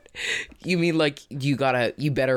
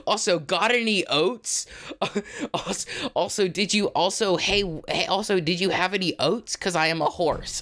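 horse voice; 5 semitones higher than usual. Acted. Keeps playing the horse.

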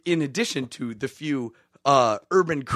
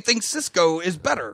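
email reading voice; 4 semitones higher than usual. Acted. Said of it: "the email reading voice, it starts now".

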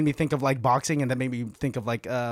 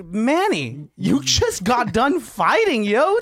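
mock exasperation; 5 semitones higher, slower than usual. Acted reply of exasperated fan.

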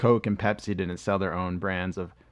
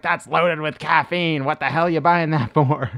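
mock mom yelling, louder and higher; angry mom; 6 semitones higher, 7 dB louder than usual. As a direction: scold the kid over the caffeine. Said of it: "My mom's like".

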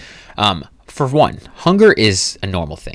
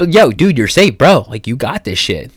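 hype-up pep talk; 3 semitones higher, 4 dB louder than usual. Pretend. Hyping himself up as bro.

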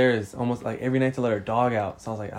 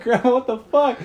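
high, loud, incredulous outcry; retold shocked protest; 13 semitones higher, 5 dB louder than usual. Replaying his words to grandma walking in, shocked high protest.

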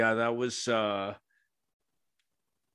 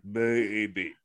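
croaky frog-like low voice; 4 semitones lower than usual. Shown as a demonstration. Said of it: "now I sound like a frog".

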